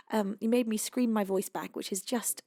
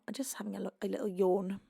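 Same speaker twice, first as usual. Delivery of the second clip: whisper; 4 semitones lower, 8 dB quieter, faster than usual. Real, not acted. Yawning, tired, whispering.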